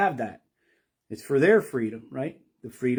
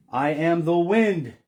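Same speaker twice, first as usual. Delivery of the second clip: divine proclamation; 4 semitones higher, 5 dB louder, slower than usual. Acted. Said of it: "in this apophatic speech".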